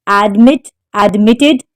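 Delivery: admitted, stressed on MIT; admitted with the weight on its second syllable. Shown as a demonstration. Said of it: "The stress is on the second syllable".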